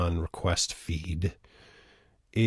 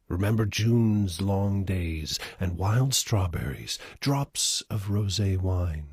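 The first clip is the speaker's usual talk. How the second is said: poem recital. Acted. Performer reading a requested poem, measured recital. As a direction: recite it unhurriedly, phrase by phrase.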